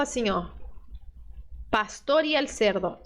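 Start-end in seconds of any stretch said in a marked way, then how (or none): 1.7-3.0 y said as a plain ee in a conjunction. Shown as a demonstration. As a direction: say y like the vowel ee. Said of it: "Conjunção, por exemplo".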